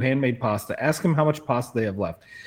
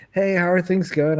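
slightly higher, imitating a wife checking in; lightly voiced wife; 6 semitones higher than usual. Wife calls husband to check in, lightly imitated. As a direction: quote her phone greeting, pitched up.

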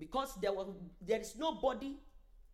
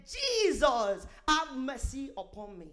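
retold shout; slower than usual. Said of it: "she just shouted".

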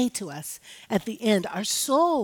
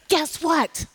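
higher, bouncy sing-song guess what; little gallop; 7 semitones higher than usual. Retold or imitated. Daughter teasing her mother with a galloping guess what. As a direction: skip the words like a playful gallop. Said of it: "in this little gallop".

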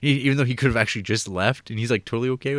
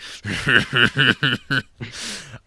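mad jailer. Retold or imitated. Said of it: "you have the mad jailer just, like".

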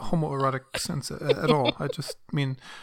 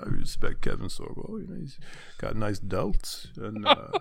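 dopey macho hunk. Pretend. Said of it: "existential meathead prophet voice of Sylvester Stallone".

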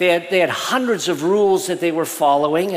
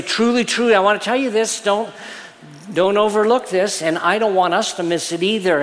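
strong words; 3 semitones higher than usual. Retold or imitated. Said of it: "they're very strong words".

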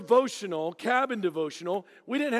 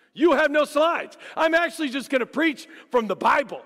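louder, slowed, stressing "no"; emphatic refusal; 6 semitones higher, 6 dB louder than usual. Retold or imitated. Preacher telling church leaders he has no slides, emphatic. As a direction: insist hard on no slides. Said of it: "I was asked three times".

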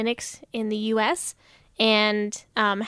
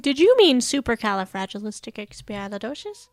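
mock search engine; faster than usual. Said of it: "it kept autocorrecting".

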